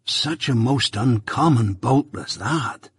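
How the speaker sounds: slow, lightly voiced country fellow; confidential. A narrator's reading. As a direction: marvel slowly, as if in confidence. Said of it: "speaking in a confidential voice".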